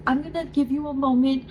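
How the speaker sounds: lightly voiced nurse soothing a patient; reassuring nurse. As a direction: gently give someone space. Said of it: "as she's wiping her tears".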